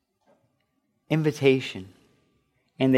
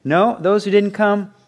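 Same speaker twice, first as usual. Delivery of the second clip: higher, louder command; a hint of a furious king; king's stern order; 6 semitones higher, 3 dB louder than usual. Furious king ordering punishment of refusers, stern.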